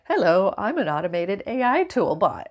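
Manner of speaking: lightly voiced chatbot greeting; a hint of a cheery automated bot; a mild mock robot reading its greeting. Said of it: "it's like".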